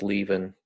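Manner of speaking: "leaving" ending in a plain n, no g; dropped final G. Shown as a demonstration. Teacher showing students casual speech, "leaving" with dropped G. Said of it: "people frequently drop the, kind of the final G".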